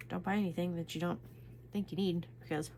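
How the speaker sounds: talking around a pen held in mouth; words muffled by a pen between lips. Real, not acted. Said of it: "pin in my mouth".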